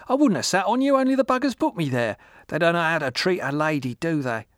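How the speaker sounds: put-on high, loud boozy old woman; drunk old woman. A narrator's reading.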